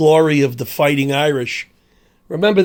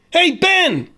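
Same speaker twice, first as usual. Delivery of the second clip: mock English officer; 4 semitones higher than usual. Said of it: "said the English".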